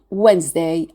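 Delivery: "Wednesday" as WENZ-day, with a Z. Shown as a demonstration. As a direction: say Wednesday with the S voiced as Z. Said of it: "we pronounce the S as a Z sound".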